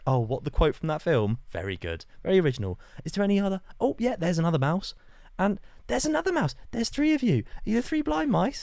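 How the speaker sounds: high, loud sarcastic taunting; sarcastic mockery. Retelling his taunts at the three mice, high and sarcastic. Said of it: "I was like".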